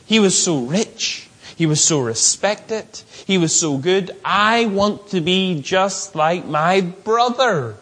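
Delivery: lightly voiced gushing brother at a funeral; a touch of naive awe; admiring mourners. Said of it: "You can imagine those brothers".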